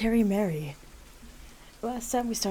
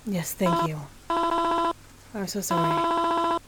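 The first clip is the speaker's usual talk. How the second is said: high, slow mourning mother; a frail mother lingering on every word; high drawn-out grieving mom; 10 semitones higher, much slower than usual. Acted. Mother character speaks.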